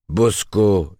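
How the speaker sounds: high booming fairground barker call; loud carnival barker. Acted. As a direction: drum up the crowd like a sideshow barker. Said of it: "en imitant le bonimenteur d'un avaleur de serpents".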